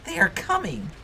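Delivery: high, loud ghostly call; urgent high creature warning; eerie monster cry. Acted. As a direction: shriek it out like a monster closing in. Monsters' voices in the game.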